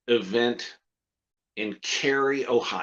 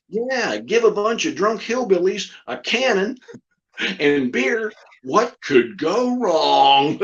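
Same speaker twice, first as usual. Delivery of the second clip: puppet voice; 3 semitones higher, 3 dB louder, slower than usual. Retold or imitated. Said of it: "the puppet's going".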